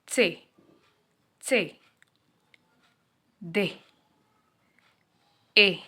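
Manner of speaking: each letter as a German name, "से", "दे", "ए", "अफ", "गे", "हा"; spelling out alphabet. Shown as a demonstration. Teacher reads alphabet letters aloud to class. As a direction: tick off the German letters one by one. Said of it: "तो it's like".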